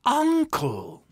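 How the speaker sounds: high, loud cry of protest; pleading. A narrator's reading. Nephew appalled at his uncle, high pleading protest. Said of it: "pleaded Fred".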